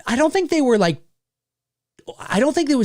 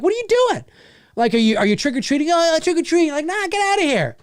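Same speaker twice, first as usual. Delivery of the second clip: retold indignation; 8 semitones higher, faster than usual. Retold run-in with kids.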